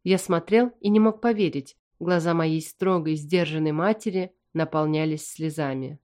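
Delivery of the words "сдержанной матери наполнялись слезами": plain reading voice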